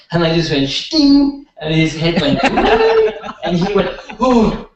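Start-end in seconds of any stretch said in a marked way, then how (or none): 0.7-1.5 a sharp, high, loud burst of a word; sudden zap cry. Retold or imitated. Healer shocks the client's neck, sharp high zap cry. 4.2-4.7 a high, loud startled oh; imitating surprise. Client feels his neck suddenly free, mock startled cry.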